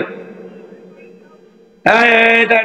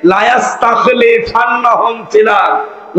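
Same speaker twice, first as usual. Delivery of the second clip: slow, measured verse recitation; chanted Arabic verse in a sermon; Quran recitation; slower than usual. Acted. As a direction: intone the verse slowly.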